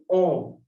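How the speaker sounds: "on" as one nasal French vowel; French AN sound. Shown as a demonstration. Teacher shows A N combination, French nasal vowel. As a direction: say "on" like French "an", without a full final n. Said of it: "we pronounce it".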